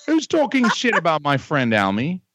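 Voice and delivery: hammed-up Australian accent; fake Australian accent. Prank caller posing as a visitor from Australia, fake Australian accent. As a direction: put on a shaky-quality amateur Australian accent. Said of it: "you are the most shitty Australian person".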